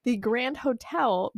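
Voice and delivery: Hotel said carefully and slowly with clean O's; slowly fix the O in Hotel, no twang; careful pronunciation. Shown as a demonstration. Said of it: "pronouncing my O's like that".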